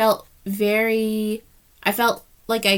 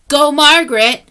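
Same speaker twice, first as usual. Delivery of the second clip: loud, higher, excited cheer; 5 semitones higher, 11 dB louder than usual. Real, not acted. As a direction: shout out a friend with glee. Cheering for friend Margaret.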